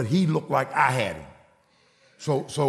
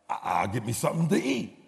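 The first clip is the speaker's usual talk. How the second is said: lower, softer stammered excuse; stuttering; 4 semitones lower, 5 dB quieter than usual. Retold or imitated. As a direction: imitate a sheepish stammering son. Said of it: "you know he stuttered".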